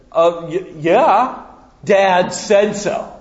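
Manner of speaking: put-on stammering older boy, rising then slow; a kid bluffing with dad's authority; flustered big brother.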